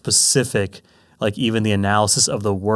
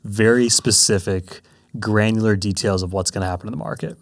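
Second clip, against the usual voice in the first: mock-grand announcement, starting loud; emphatic, with joking seriousness; tongue in cheek; 5 dB louder than usual. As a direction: playfully build up a big revelation. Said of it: "tongue in cheek a little bit".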